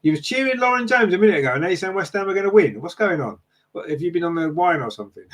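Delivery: high-pitched, incredulous challenge; teasing disbelief. Real, not acted. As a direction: call out the viewer in baffled, mock outrage. Teasingly challenges viewer's changed loyalty.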